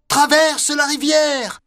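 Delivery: shouting. Acted. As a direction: call out the order. Elephant commands.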